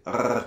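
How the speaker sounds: "rrr" gargled at the back of the throat; throaty gargling "rrr"; French R. Shown as a demonstration. Teacher demonstrating the guttural French R. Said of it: "Il se fait ici en français".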